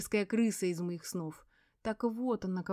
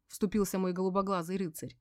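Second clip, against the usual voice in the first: usual speaking voice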